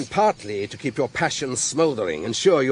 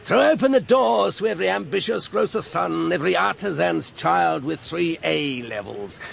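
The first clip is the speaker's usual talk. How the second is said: mocking speech in a Marlborough accent; lightly mimicked Marlborough accent; Marlborough accent drawl; 6 semitones higher than usual. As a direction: parody a Marlborough idealist's drawl. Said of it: "he drawled in his best Marlborough accent".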